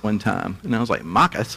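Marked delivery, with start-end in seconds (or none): 1.0-1.6 "Makas" echoed without r sounds, as a question; puzzled echo of Australian "Makas"; puzzled mispronunciation. Retold or imitated. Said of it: "I couldn't understand a word he said".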